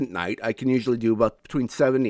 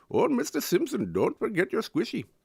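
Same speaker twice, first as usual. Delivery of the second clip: cartoonish, very high, sing-song Indian accent; 10 semitones higher, 3 dB quieter than usual. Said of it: "maybe like a Pooh from The Simpsons".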